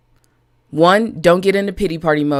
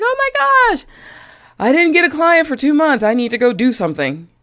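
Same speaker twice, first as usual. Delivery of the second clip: high squeaky mock panic, much higher; 8 semitones higher than usual. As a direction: voice a frantic owner, way up high. Mocking panicked client-less owner.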